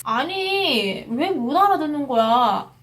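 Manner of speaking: retold frustration, stretching the opening word; exasperated. Speaker complaining that the stranger can't understand, exasperated.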